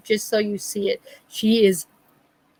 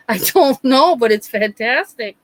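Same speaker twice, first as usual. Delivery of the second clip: amused delight; 3 semitones higher, 4 dB louder than usual. Retold or imitated.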